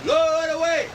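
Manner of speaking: slow shouted sail commands; drawn-out captain's call; calling orders. Acted. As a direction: boom out the orders.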